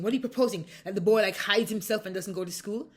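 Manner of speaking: high, loud mock disbelief; imitated incredulous objection. Commissaire challenges the mother's proposal about the boy, imitated incredulity.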